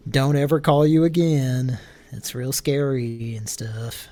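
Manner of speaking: sarcastic shout; loud mocking parody; mock imitation. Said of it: "I was gonna say".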